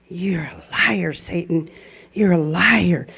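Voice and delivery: whispered rebuke under the breath; soft defiant whisper; inner whisper. Retold or imitated. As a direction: hiss it silently at Satan. Silent rebuke in her head.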